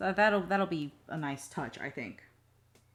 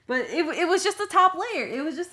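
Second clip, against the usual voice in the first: laughing; 11 semitones higher, 13 dB louder than usual. Real, not acted. Laughs about burnt casserole.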